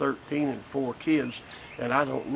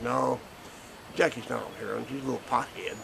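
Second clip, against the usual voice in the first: offhand remark. Retold or imitated. Grandfather correcting CPS about his daughter-in-law, offhand. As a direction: toss it off as an off-the-cuff correction. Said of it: "I said it just like that".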